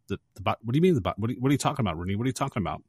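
hurried, stammering retort; mock flustered. Mister Peterson answers Rooney on the phone, mock flustered. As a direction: stumble over the words in mock disbelief.

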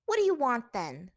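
high, loud burst of hatred; hateful. A narrator's reading. Captive demanding answers from her captor, hateful. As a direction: spit the question out with loathing. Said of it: "punctuating every word with hatred".

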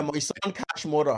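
mock Irish accent; hammy Dublin accent reading. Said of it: "let me read them out in Dublin accent".

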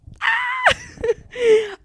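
high loud excited scream-laugh; shrieking happy laugh; excited squeal. Real, not acted. Excited scream about Jamaica.

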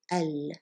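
al said with a short clipped A; al, short a then l. Shown as a demonstration. Teacher models the correct short-A al. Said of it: "short A, and then the letter lam".

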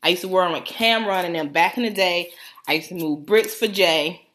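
light New York street voice, mostly her own; hint of Brooklyn swagger; mock New York accent. Bragging to friends in a lightly faked New York voice. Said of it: "you gonna hear that accent".

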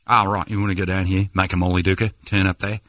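casual put-on Aussie local; lightly hammed Australian accent; fake Australian accent. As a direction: give directions as a faux Australian. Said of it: "talk to the waiter as an Australian".

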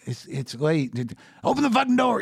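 very high, loud impatient yell; insistent demand. Retold or imitated. Sam yelling up at Greg to open the door. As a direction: demand the door be opened right now. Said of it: "And it's like".

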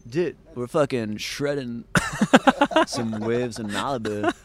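slow, laid-back surfer-dude drawl, hammed up; lazy California surfer dude, half laughing; mock California surfer accent. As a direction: play a stoned Malibu surfer bro. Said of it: "what is the California accent? It's like".

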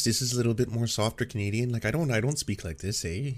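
understated soft Canadian accent demo. Shown as a demonstration. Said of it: "he talks a bit like this".

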